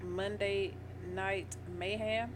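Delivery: Mayhem said slowly as "may-ham"; country twang. Real, not acted. Co-host repeating the topic line on request, country twang on Mayhem. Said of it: "Why do you say it like that?".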